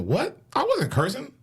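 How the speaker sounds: high mock innocent denial. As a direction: squeak out the denial. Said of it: "I said".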